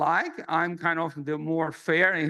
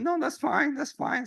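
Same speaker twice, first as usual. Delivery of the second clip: higher, hurried reassurance that it's fine; awkward brush-off; 9 semitones higher than usual. Retold or imitated. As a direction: laugh it off while stunned. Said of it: "kind of awkward moment".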